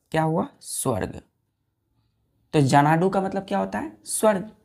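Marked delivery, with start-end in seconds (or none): 0.6-1.2 whispered answer. Shown as a demonstration. Teacher answering own question.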